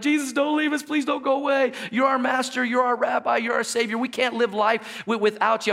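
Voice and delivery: high-pitched pleading whine, hammed up; mock whining. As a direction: imitate whiny disciples begging. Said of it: "they're basically whining and they're crying".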